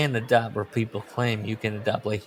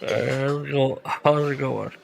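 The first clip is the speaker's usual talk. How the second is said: slow greeting through a pinched nose; 2 semitones higher, slower than usual. Shown as a demonstration. Second try at a mock voice, nose pinched. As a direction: pinch your nose and test the voice. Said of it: "Let me pinch my nose".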